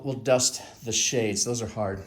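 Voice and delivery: winded, breathing hard between words. Real, not acted. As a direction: talk while catching your breath. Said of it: "It sounds like I'm out of breath".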